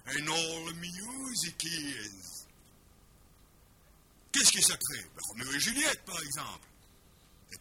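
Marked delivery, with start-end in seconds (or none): 0.1-2.4 very slow drawn-out English line; phrase anglaise très lente; English quote. Shown as a demonstration. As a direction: stretch each word slowly. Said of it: "une phrase de Vonnegut".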